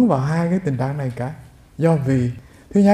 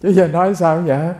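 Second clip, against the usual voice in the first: a real chuckle through the question; amused laugh. Real, not acted. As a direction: laugh while asking, amused. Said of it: "mình nghe cái mình tức cười".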